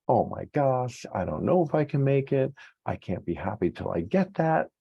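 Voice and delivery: a hint of panic building in imitated self-talk; mock anxious thoughts. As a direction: act out the spiralling what-ifs, pitch creeping up. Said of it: "So let me show you how that works".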